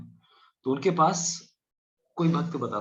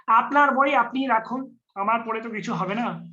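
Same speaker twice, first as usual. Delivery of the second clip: mock lazy devotee; 8 semitones higher, 4 dB louder than usual. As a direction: whine like someone dodging the book. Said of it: "इसका मतलब ये नहीं कि". (बंगाली में ऊँची, धीमी, टालने वाली नकल)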